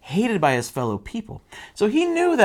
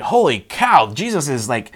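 acting out an awestruck crowd; mock amazement with emphatic bursts; amazed crowd; 3 dB louder than usual. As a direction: marvel like an onlooker, excitedly. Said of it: "all the people are amazed".

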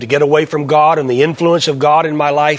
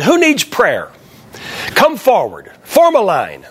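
higher-pitched mild call to the congregation; retold altar call; 4 semitones higher, slower than usual. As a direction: lightly imitate a preacher summoning people forward.

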